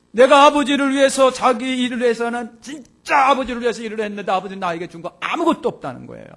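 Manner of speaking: high, loud retold protest; aggrieved complaint. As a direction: act out a resentful son's grievance at full voice. Preacher voices the elder son's complaint.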